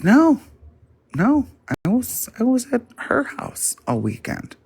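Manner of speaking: high, loud, quick protest; mocking sister insisting. Teller mimicking her sister insisting, high and loud. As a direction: protest too much in a squeaky high voice.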